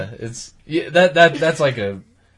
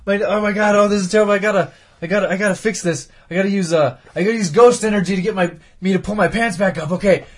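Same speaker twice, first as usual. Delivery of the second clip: panicked ghost; 6 semitones higher than usual. Retold or imitated. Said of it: "he's like".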